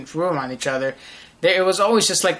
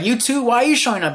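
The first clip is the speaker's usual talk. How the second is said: higher-pitched, incredulous question; mock puzzled disbelief; retold bafflement; 7 semitones higher, faster than usual. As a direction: act out being lightly thrown. Retold exasperated reply to visitor.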